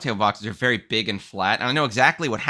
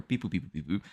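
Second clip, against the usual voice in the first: robot beeps; 6 semitones lower, 9 dB quieter than usual. Retold or imitated. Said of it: "the automated system's like".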